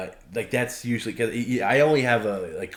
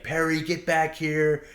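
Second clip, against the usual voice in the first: higher, slow calling him back; mock scolding; 6 semitones higher, slower than usual. To Perry darting to the kitchen, higher mock scold. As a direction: lay into him half in earnest. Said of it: "I'll lay into him".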